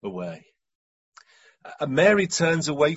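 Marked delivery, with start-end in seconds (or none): 0.0-0.5 slow, low, understated sorrow; deeply felt pain. Acted. Mary grieving for Jesus, deeply felt. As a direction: weigh each word slowly with quiet devotion. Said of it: "You can hear the depth of the relationship".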